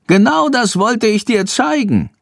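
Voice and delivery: high squeaky little bat voice; eager bat. A narrator's reading. Bat shows the boy the canisters, high creature voice. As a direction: speak up high as a small bat. Bat character speaks to Jendrik.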